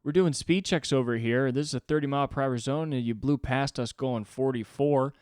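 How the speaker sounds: loud, high, overly friendly officer voice; a cop being pushy-cheerful; aggressively nice cop. Retold or imitated. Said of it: "aggressively nice about it".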